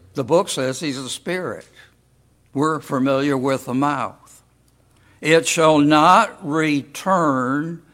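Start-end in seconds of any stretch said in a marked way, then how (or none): 5.2-7.8 slow, measured Bible reading; scripture reading. Acted. Preacher reads Isaiah aloud to the congregation, slow and solemn. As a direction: read the verse with weight, slowly.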